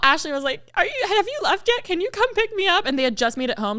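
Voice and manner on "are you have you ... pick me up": small, high begging voice; retold high-pitched plea to a friend; sheepish plea. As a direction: ask pitifully for rescue. Retold phone plea for a pickup.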